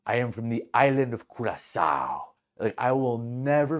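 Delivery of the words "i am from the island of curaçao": lightly imitated Curaçao accent; proud Curaçao accent, gently put on; Curaçao man's accent. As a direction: declare it in an attempted Curaçao accent. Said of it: "to honor this man's accent".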